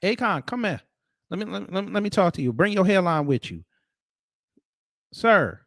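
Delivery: high, loud call across the room; hey, come over here. Real, not acted. Calling the lookalike over, high and loud.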